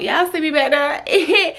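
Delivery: slow words through laughter; laughing. Real, not acted. Laughing at own body.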